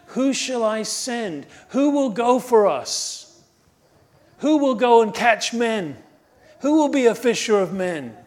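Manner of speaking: voice of the Lord calling. A narrator's reading. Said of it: "I heard a voice of the Lord saying".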